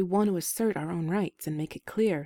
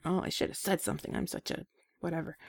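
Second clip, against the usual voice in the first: self-berating inner voice; 6 dB quieter, faster than usual. Shown as a demonstration. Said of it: "not should as a judgmental thing".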